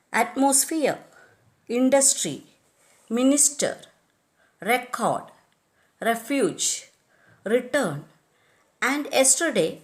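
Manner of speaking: atmosphere, industry, minister, yesterday stressed on the second syllable; at-MOS-phere, in-DUS-try, mi-NIS-ter; second-syllable misplaced stress. Shown as a demonstration. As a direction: shift the stress in this word list, atmosphere to yesterday, onto each second syllable. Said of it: "are accented on the second syllable".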